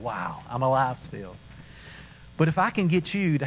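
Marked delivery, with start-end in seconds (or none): 0.0-1.4 awed relief. Retold or imitated. Surfacing after the jump.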